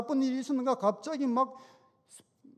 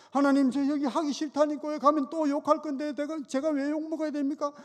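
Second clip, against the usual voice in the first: higher, complaining whine; whiny grumbling; 5 semitones higher than usual. Retold or imitated. Deacon complaining to God outside the shop, higher whiny grumble. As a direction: grumble to God like a sulking child. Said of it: "투덜투덜 막 하는데".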